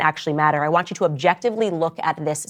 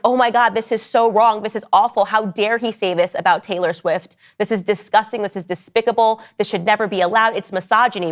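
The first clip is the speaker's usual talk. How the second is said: outraged fans; 4 semitones higher than usual. Retold or imitated. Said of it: "They were like".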